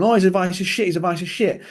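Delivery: high, scornful mock rant; mocking trainers. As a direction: sneer it like an outraged trainer. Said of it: "They go off on one".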